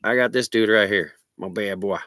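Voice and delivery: stoned, loose and drawling; stoner. Real, not acted. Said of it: "I'm stoned right now".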